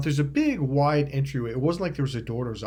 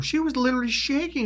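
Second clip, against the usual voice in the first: high, appalled insistence; indignant scolding; 12 semitones higher than usual. Retold or imitated. Repeating to his friend how scared she was, indignant. Confronts friend over the prank.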